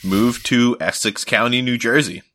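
a light pitchman read; lightly voiced local ad announcer; mock TV ad voice. A hint of a TV pitchman selling New Jersey. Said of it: "where it was like".

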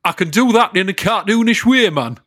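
high, exaggerated Northeastern English accent; cartoonish Northeastern accent. Shown as a demonstration. Showing off accents on request, cartoonish Northeastern. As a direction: ham up a cartoon Geordie-style Northeastern accent. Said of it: "cartoonish versions of some British accents".

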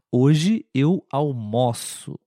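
almoço with an open o, said slowly. Shown as a demonstration. Teacher models the open o in almoço slowly. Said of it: "um pouquinho mais aberto".

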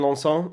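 "Lanson" said the French way, with a nasal ending; French pronunciation. Real, not acted. Defending his champagne name, French pronunciation of "Lanson". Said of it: "scoffing at my pronunciation of Lanson".

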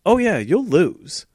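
high mocking impression of a school vice principal. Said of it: "he was like".

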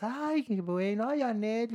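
high, slow gushing voice; mock-gush over her sweetly; fawning reporters. Reporters mockingly gushing over Anel, high and slow.

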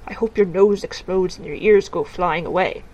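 hammed-up curse; mock curse. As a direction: spit out a silly curse. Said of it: "Cursing is more in the lines of".

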